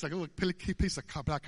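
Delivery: stumbling over "pil-" and "ca-", breaking off each word; real garbled false starts; tongue-tied. Real, not acted. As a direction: trip over your own words, restarting at "piece". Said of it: "I'm speaking in tongues here".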